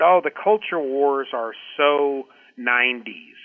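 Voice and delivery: slow, drawn-out mocking dismissal; lightly mock it as passé, stretching the last words; mocking quote. Quoting the president on culture wars, mocking. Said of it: "kind of mocking".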